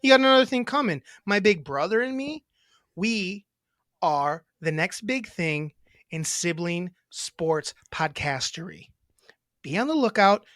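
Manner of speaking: light hammed-up taunting promo; imitating Tara. Brother hamming up his sister's challenge to rival podcasters. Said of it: "That's how you'd say it".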